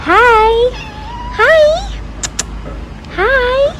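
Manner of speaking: high loud cooing. Real, not acted. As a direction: greet the little one high and bright. Greeting the baby animal.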